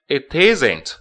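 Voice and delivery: "it isn't" joined; linking it isn't. Shown as a demonstration. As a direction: run "it" into "isn't". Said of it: "It跟isn't要连读". (连读"it isn't")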